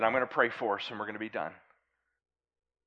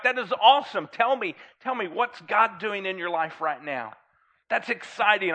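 enthusiastic; 5 semitones higher, 4 dB louder than usual. Acted. Model of encouraging reply.

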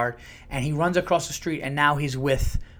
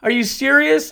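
put-on very high, louder horrified child's question; shocked son; 12 semitones higher, 6 dB louder than usual. Son horrified at his father's remark, very high. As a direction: voice a stunned eight-year-old. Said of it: "he goes".

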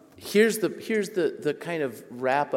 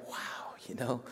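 soft breathy wow; awed inner thought; 10 dB quieter than usual. Retold or imitated. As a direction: hush it as a private realization.

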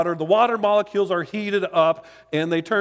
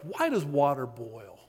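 half-hearted Irish accent, softly voiced; John Lennox; 2 semitones lower, 4 dB quieter than usual. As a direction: attempt a grandfatherly Irish accent, badly faked. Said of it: "I can't do an Irish accent".

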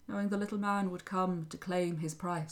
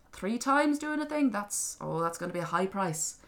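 haggling little man; 2 semitones higher than usual. Acted. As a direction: weigh up the price like a crafty leprechaun. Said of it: "the little man said".

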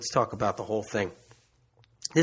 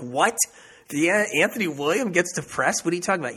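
higher, incredulous retold reaction; mock disbelief; 6 semitones higher, 4 dB louder, faster than usual. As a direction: act out a baffled listener's astonishment. Retelling people's shocked reply.

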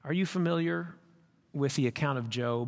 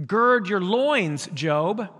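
slow, louder divine command; slow commanding God; 4 semitones higher, 6 dB louder, much slower than usual. Acted. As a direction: command Job to stand firm.

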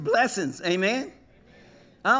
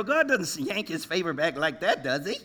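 sly teasing aside; 4 semitones lower, 5 dB quieter than usual. Retold or imitated. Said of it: "I go".

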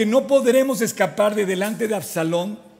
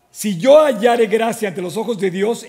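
louder, earnest plea to God; fervent plea; 6 dB louder than usual. Acted. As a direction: lift it up as a heartfelt plea. David's fervent prayer quoted.

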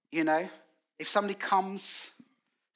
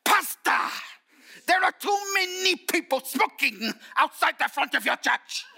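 high, loud, hammed-up scolding of a pastor; complaining churchwoman; 12 semitones higher, 6 dB louder than usual. Churchwoman complaining to her pastor about smokers, mock shrieked complaint. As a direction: imitate an indignant complainer at full volume. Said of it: "And then she said this".

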